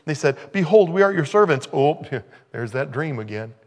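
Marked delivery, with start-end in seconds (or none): 0.5-1.7 mock humble servants. Brothers bow. 1.7-3.5 chuckling through the words; laughing. Real, not acted. Preacher laughs about the bowing brothers.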